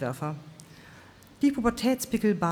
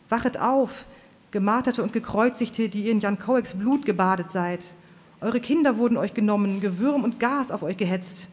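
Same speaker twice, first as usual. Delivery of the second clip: fiery preacher; 4 semitones higher than usual. Acted. Preacher Swan's fiery speech.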